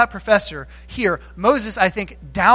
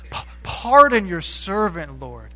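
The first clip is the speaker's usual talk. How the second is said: humble apology. Acted. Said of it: "You notice that?".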